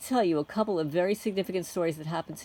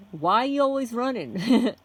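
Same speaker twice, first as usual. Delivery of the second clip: louder, higher redneck-style question; mock friendly yell; 5 semitones higher, 5 dB louder than usual. A narrator's reading. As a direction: call it out lightly over passing cars. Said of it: "We were yelling because of the sound".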